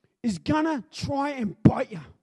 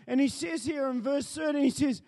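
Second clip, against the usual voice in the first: preaching. Acted. Preacher reading scripture, exhorting.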